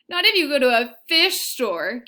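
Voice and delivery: loud, high angry retort; bellowing child. Acted. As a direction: yell it back at mother. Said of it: "Kirsty bellowed".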